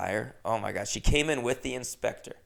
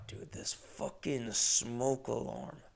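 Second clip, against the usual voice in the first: real annoyed whisper under the breath; 9 dB quieter, slower than usual. Real, not acted. Host irritated by the beeping smoke alarm, annoyed whisper. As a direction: hiss it so the mic barely catches it.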